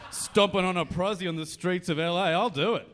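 bro rant. Acted. Bro buyer ranting in role.

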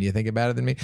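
put-on light Southie Boston accent. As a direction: drop the R, Boston-style. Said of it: "that's famous for".

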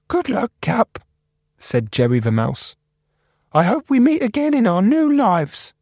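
very high, squeaky, eager mouse; Jerry the mouse. Acted. Computer mouse Jerry greeting the new guy, high and squeaky. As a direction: squeak it out friendly.

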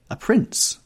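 very high, lilting exclamation; musical cry. A narrator's reading. Sister exults over her suitor, crying out musically. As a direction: sing out the words in a high voice. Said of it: "she cried, musically".

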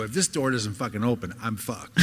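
low, muttered worry under the breath; muttered panic. Retold or imitated. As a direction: mutter it to yourself, fearing a locked door. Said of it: "and I go".

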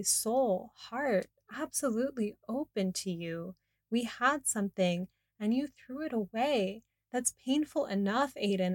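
pleading through tears, half-performed in the retelling; tearful pleading. Retold or imitated. Narrator pleading tearfully with Aiden to stop. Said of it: "I'm in tears".

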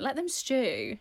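put-on light Irish accent on "Let them stew"; a hint of an Irish nan. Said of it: "In her little Irish accent".

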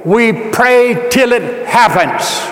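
slow, emphatic declaration to a congregation; forceful preaching. Real, not acted. Preacher declaring God's will for a church house, forceful preaching. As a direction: hammer each word out slowly and firmly.

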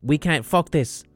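alien voice. Acted. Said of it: "they'd just go".

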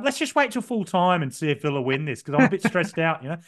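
a light Australian accent imitating his fiancée. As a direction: lightly mimic a Brisbane speaker. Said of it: "the reason I'm doing an Australian accent".

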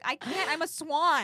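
high, loud, giggling through it; laughing mock princess. Retelling the swan princess, high laughing squeal.

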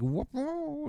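high, soft rising "whoop"; a quick high whoop in imitation; mock whoop. Mimics reaction of surprised character.

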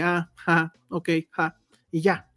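imitating a tepid, polite laugh; half-hearted token "ha", barely amused; risa desganada imitada. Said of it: "sí son así de". (risa de compromiso, sin ganas)

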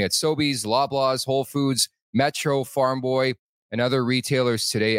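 sponsor ad read. Real, not acted. Host reads non-alcoholic beer sponsor spot, ad read. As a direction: read the sponsor copy with a stumble.

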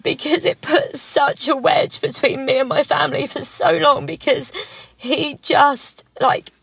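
real emotion welling up, pitch rising; holding back tears while telling it; getting emotional. Real, not acted. Telling friends about the family rift, voice rising with emotion. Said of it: "I'm gonna get really emotional now".

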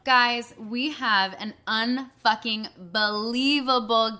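loud, hyped host announcement; announcer intro. Acted. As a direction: build the guest up like an emcee. Hosts an intro for the guest.

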